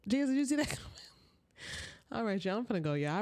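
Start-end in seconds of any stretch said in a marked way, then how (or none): 0.1-0.8 laughing, higher toward Jesus; laughing question to God. Real, not acted. Vlogger laughingly asking Jesus, amused. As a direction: laugh it up to heaven. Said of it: "I wonder if God saw that coming".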